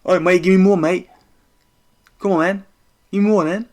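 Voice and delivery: cocky come-on, lightly voiced; mock taunt. Streamer imitating Volkanovski's cocky taunt. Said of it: "He does this".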